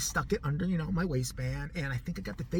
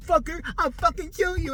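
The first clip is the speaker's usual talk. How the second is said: mock murderous snarl; 9 semitones higher, 4 dB louder than usual. Teller fakes stabbing threat.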